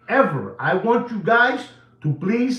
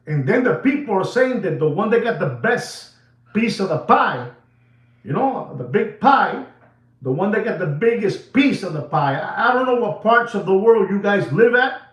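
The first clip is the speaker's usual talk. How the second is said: higher, worked-up retelling; too excited; 3 semitones higher, 3 dB louder than usual. Real, not acted. Host telling viewers who got the biggest piece, overexcited. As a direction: get carried away as you explain. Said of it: "I'm getting too excited".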